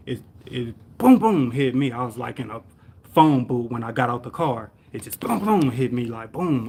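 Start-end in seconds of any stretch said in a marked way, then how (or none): 1.0-1.5 punchy vocal sound effect of an impact; imitated crash boom. Driver retelling the crash, booming imitated impact. 5.2-5.7 high, punchy impact noise; imitated crash boom. Driver retelling being hit, booming sound effect.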